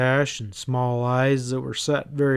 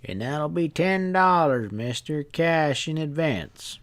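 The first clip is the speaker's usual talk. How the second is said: a hint of a knowing stableman; sly stableman; 3 semitones higher than usual.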